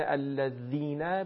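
الذین with a hard, tapped dh instead of a fricative; teacher's faulty demo of ذ in الذین; struck dhal. Shown as a demonstration. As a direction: hit the ذ in الذین like a stop. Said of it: "به این شکل تلفظ نشه".

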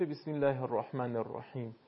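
الله with a thin, light L after the i vowel; teacher's demo of thin L in الله; light lam. Shown as a demonstration. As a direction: keep the L in الله light, never dark.

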